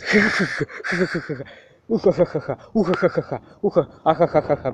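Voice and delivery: cartoon robot cackling, far off timbre; robot laugh. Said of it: "а голосом робота, озвучивающего мультики".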